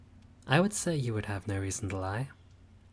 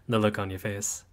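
chuckling through the words, amused; teasing laugh; 4 dB louder than usual. Acted. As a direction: laugh at their startled face.

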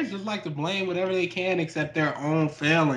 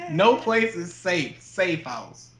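horror trailer voice; slower than usual. Retold or imitated. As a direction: say it like a movie trailer. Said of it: "actual poster slogan for that movie".

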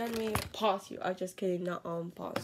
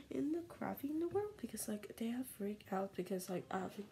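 whisper; 6 dB quieter than usual. Real, not acted. Whispered game commentary.

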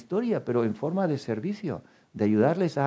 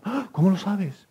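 higher, louder, a startled little "how do you know?"; playful surprised reply; mock surprise; 7 semitones higher, 4 dB louder than usual. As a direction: play the listener caught off guard, pitched up. Acted listener reacting, surprised.

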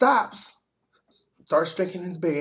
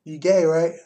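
blurted question; 7 dB louder than usual. Retold or imitated. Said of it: "he comes up from behind me and is like".

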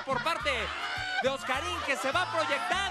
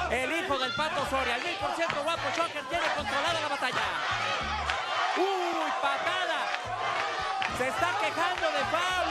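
lively play-by-play ringside call; wrestling commentator. Acted. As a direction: call the match live, caught up in it.

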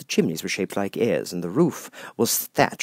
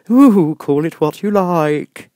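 grinning Cheshire Cat; 9 semitones higher, 11 dB louder, slower than usual. Acted. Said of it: "said the cat".

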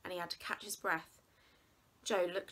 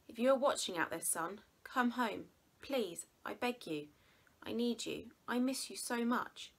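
pleading father; 4 semitones higher than usual. Acted.

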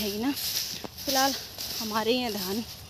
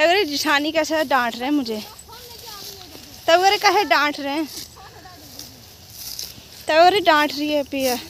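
playful whiny complaint, rising louder; mock complaint; 5 semitones higher, 5 dB louder than usual. Vlogger jokingly complains to camera about being scolded, mock whine. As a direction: pretend to be hurt at being scolded.

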